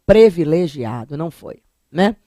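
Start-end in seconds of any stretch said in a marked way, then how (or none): 0.1-1.2 "privilegiado" as "previlegiado"; pronúncia errada. Shown as a demonstration. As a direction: start "privilegiado" with PRE. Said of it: "Tem gente que diz assim". ("privilegiado" com E: "previlegiado")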